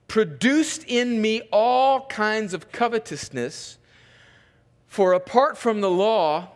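measured reading, phrase by phrase with pauses; scripture reading. Real, not acted. Pastor reads Paul on law and sin, measured scripture reading. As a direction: read it out deliberately to a congregation.

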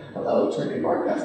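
hushed imitation of a sweet receptionist; half-whispered hello on the phone; soft phone greeting. Caller recalls the receptionist answering, softly.

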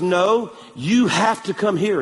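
slow, deliberate insistence; imitated serious insistence. Missionary orders the pastor out of the cab, acted seriousness. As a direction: spell it out slowly, as if deadly serious. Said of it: "he said it seriously like that".

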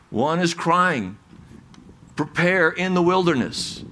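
"wilderness" stressed, the way Isaiah lays it out. Shown as a demonstration. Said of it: "The emphasis is, is on the wilderness".

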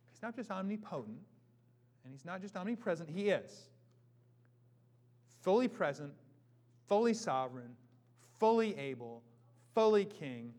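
building proclamation. Acted. Building declaration.

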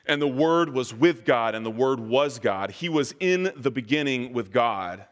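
measured, solemn reading of scripture. Acted. Pastor reading the opening of John to the congregation, solemn and measured. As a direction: read the Gospel out to the congregation, unhurried. Reads John's prologue aloud.

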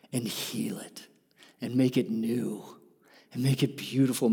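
soft whispered promise. Real, not acted. Preacher tells the crowd Jesus heals, soft whisper. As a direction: drop to a whisper.

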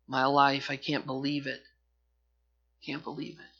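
soft, fading bitter disbelief; bitter lament. Retold or imitated. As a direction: let it sink away in bitter grief. Esau's bitter weeping voiced.

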